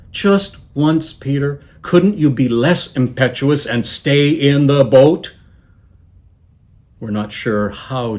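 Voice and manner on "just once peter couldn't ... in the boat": exasperated plea, pitched up. Acted. Jesus fed up with impetuous Peter, exasperated. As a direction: plead with a note of weary exasperation. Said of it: "a note of exasperation in his voice".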